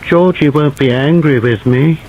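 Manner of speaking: put-on high, pleading little-boy voice; piteous child's voice. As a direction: beg like a frightened child. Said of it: "In a piteous child's voice".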